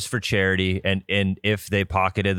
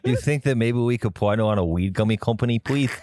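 sheepish phone call voice; 3 semitones higher than usual. Retold or imitated. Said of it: "can you imagine that phone call".

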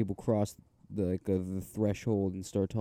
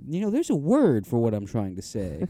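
pompous adult; 3 semitones higher, 6 dB louder than usual. Retold or imitated. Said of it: "they're like".

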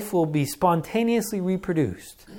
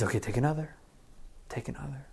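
soothing parent; 10 dB quieter, faster than usual. Retold or imitated. Parent calming child down.

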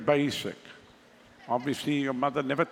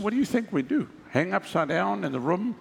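mock indignation. Preacher answers a question about preparing for services, mock-indignant. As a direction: fire back mock-baffled, pitch leaping on the last question.

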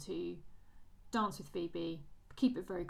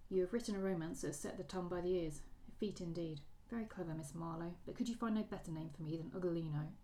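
story reading. A narrator's reading. Podcaster reads the waltz scene to her co-host, story narration. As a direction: read the ballroom quarrel as a measured story narration. Reads novel passage aloud.

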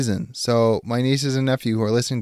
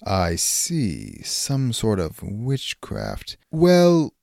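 medieval suitor; slower than usual. Acted. Suitor role.

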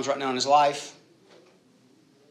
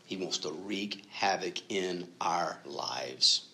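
slow whispered warning; ominous whisper; 4 semitones lower, 5 dB quieter, much slower than usual. Real, not acted. Pastor warning his congregation about Satan, slow ominous whisper. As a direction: let it creep out, slow and hushed.

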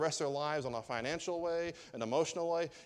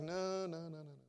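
pouting king; 3 semitones higher, 5 dB quieter than usual. Acted. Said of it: "He's pouting".

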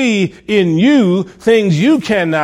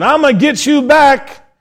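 mock taunting threat; 9 semitones higher, 4 dB louder than usual. Quoting someone yelling threats.

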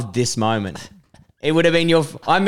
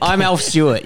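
Alf Stewart impression; 2 semitones higher than usual. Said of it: "is that his accent".

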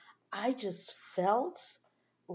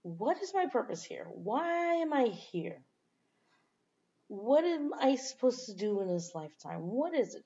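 higher-pitched, searching questions; retold self-questioning; 4 semitones higher than usual. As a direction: re-enact asking yourself, stretching the key words. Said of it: "I myself have asked".

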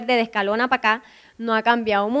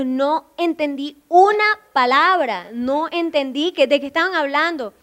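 imitating baffled listener; 4 semitones higher than usual. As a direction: retell his bafflement, drawing the words out. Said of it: "me dijo".

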